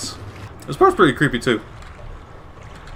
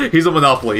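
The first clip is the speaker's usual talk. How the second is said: laughing; 5 semitones higher than usual. Real, not acted. Laughs at own slip.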